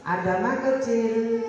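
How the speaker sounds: slow, flexible, gentle delivery; gentle intonation. Shown as a demonstration. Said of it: "Intonasinya harus lembut". (intonasi lembut dan perlahan)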